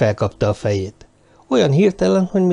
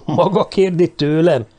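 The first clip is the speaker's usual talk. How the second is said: startled, higher pitched question; taken aback; 7 semitones higher than usual. A narrator's reading. Wallace, startled by the question, taken aback. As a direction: caught off guard, asking back. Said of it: "hökkent meg mister Wallace".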